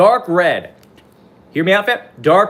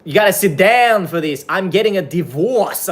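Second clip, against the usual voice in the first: lightly put-on accent, higher, stretching the last words; mock TikTok lady accent; 4 semitones higher than usual. Streamer mocking a TikTok lady's put-on accent. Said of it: "that one lady on TikTok who's like".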